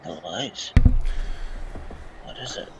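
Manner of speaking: low, hushed aside to a companion; barely audible conspiratorial murmur; whisper. Acted. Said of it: "whisper to Supernova".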